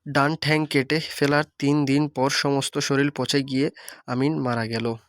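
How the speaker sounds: ঠ্যাং said in rural dialect; regional Bengali form. Shown as a demonstration. Teacher demonstrating the dialect version to students, in regional Bengali. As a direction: read it in village Bengali, ঠ্যাং not পা. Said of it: "ভাষারূপের আঞ্চলিক রূপ".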